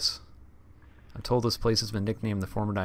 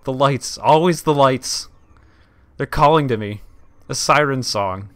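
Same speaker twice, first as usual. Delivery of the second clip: loud, high, eerie moan; haunted wail; 5 semitones higher, 11 dB louder than usual. Acted. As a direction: wail it like a spacer going mad. Reading a crazed log aloud.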